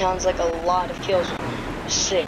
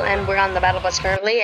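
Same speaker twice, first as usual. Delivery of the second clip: talking fast; faster than usual. Real, not acted. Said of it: "I don't know why I'm talking so fast".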